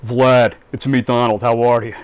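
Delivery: crappy Donald Trump imitation. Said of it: "sorry about my crappy Donald Trump imitation".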